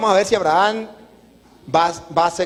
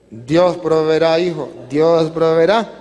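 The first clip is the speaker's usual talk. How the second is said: slow, drawn-out, slightly lower reply; an embarrassed father stalling for an answer; apenado, sin saber; 3 semitones lower, 3 dB louder, slower than usual. Acted. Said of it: "apenado con el pelado, y sin saber qué hacer". (apenado y lento, sin saber qué decir)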